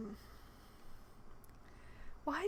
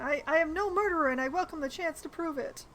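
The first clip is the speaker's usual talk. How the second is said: higher, louder, quicker take; louder faster retry; 3 semitones higher, 4 dB louder, faster than usual. Shown as a demonstration. Player retrying the dialogue, louder and faster. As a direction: push it harder this time. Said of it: "back up and try again".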